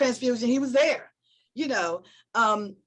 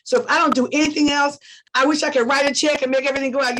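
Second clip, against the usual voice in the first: emphatic vow; 6 dB louder, faster than usual. Real, not acted. Emotional vow to sick friend.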